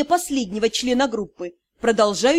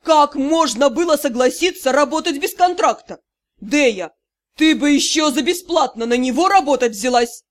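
loud scolding rant; still raging; 4 dB louder than usual. Acted. Drow keeps scolding Dei about the contract, angry. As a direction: keep storming at her. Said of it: "Продолжал бушевать".

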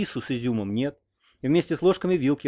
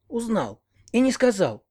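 much higher, incredulous; shocked disbelief; 9 semitones higher, slower than usual. A narrator's reading. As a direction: gasp it out in disbelief. Grandmother shocked by confession.

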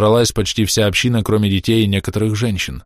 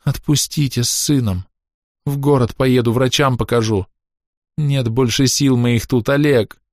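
pleading; 5 semitones higher than usual. A narrator's reading. Woman pleads to leave.

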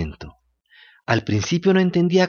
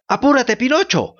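bleating shout; 9 semitones higher than usual. A narrator's reading. Goat shouting to the swimming Pinocchio, high bleating cry. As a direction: call out urgently like a bleating goat. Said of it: "gritaba balando la bella cabrita".

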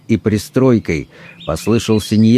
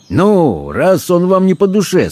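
amused, higher-pitched suggestion; lightly cheerful, lifted in pitch; cheered up; 9 semitones higher than usual. A narrator's reading. Harris humouring the priest about the knife, mildly amused. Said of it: "развеселившийся Хэррис".

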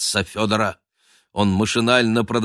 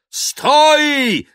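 very high, loud order to stop; thundering shout; 6 dB louder than usual. Acted. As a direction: roar after him. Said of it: "загремел Остап".

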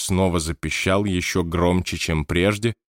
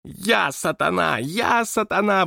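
very high, slow, wild yell; screaming; 11 semitones higher, slower than usual. A narrator's reading. Scene: May charging out to scare the guests, screaming. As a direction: shriek it with knives overhead. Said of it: "вопила она".

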